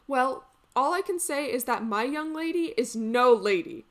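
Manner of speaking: lively, gossipy servant with exaggerated swoops; indignant comic maid. Lady's maid griping about her mistress, comically indignant. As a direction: complain with comic stage emphasis.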